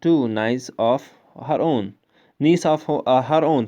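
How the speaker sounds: halting, stumbling over "two niece of her own"; fumbled reading. Real, not acted. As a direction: trips on the words and restarts. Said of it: "sorry". (अटकते हुए पढ़ना)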